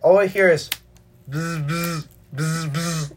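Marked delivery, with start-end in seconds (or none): 1.3-3.1 soft buzzing phone noise; imitated phone buzz. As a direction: hum it like a vibrating phone. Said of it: "Sound effects as fuck".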